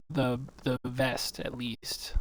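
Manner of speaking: whispered correction under the breath. Real, not acted. Correcting his friend in a quick whisper. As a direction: drop to a whisper mid-sentence.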